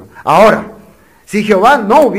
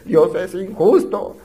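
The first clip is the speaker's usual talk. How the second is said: complaining voice; slower than usual. Retold or imitated. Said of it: "Nosotros pensamos al revés".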